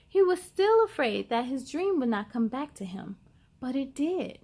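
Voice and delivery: put-on lively read-aloud to children; picture book reading. A narrator's reading. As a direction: tell the story brightly to young listeners.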